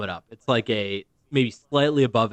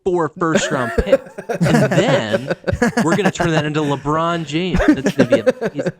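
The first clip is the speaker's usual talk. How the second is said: mock fan enthusiasm; 2 semitones higher than usual. Mocking a fan's off-season plan.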